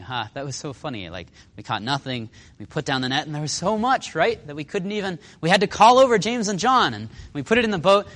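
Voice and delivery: lightly acted, warming to a happy memory; happy reminiscing. Peter recalling the big catch, happily reminiscing. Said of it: "He's thinking about happy times".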